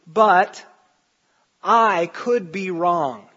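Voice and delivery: sincere, earnest conviction. Shown as a demonstration. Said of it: "here's what it should sound like".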